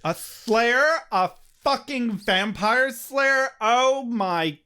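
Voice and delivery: high, slow haughty scorn; imperious plummy grande dame. Acted. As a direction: sneer it like a bored goddess. Voicing Glory's disdain.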